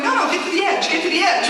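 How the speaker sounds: director yelling. Retold or imitated. Director yelling at tunnel people on steep stairs, insistent. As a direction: push them to the edge, impatient. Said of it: "our director's going".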